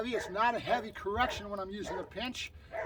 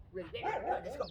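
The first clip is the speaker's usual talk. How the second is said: pump-up cue; 6 semitones higher, 4 dB quieter, faster than usual. Shown as a demonstration. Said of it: "That's my little pump up".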